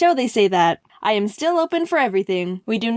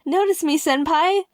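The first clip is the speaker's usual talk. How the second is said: mock fan plea; 6 semitones higher than usual. What YouTubers say to him.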